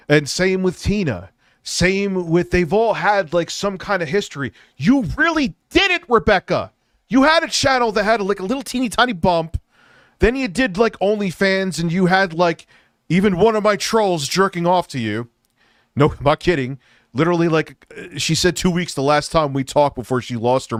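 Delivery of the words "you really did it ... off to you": much higher, mocking and raised; angry mockery aimed at Rebecca; scornful rant. Real, not acted. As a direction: sneer at her achievements. Ranting at Rebecca.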